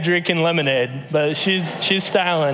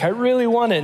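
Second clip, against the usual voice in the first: a higher, whiny mock cry of a pouting toddler; whiny pouting child; 7 semitones higher, faster than usual. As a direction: imitate a toddler pouting and whining for what she wants. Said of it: "And she's crying and she's pouting".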